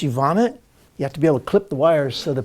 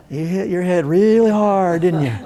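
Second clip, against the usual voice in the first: put-on Texas accent. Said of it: "she's got this Texas accent".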